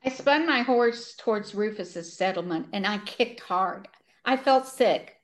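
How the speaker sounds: measured, earnest book reading; story read aloud with clear phrasing; story narration. A narrator's reading. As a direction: read the sad passage aloud with gentle emphasis. Reads a book passage aloud.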